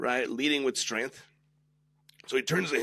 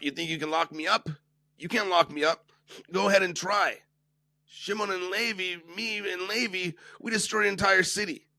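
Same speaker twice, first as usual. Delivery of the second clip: defiant taunt; 4 semitones higher than usual. Retold or imitated. Shimon taunting Yosef, defiant and higher. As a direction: dare him to try it. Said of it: "Shimon turns to Yosef defiantly".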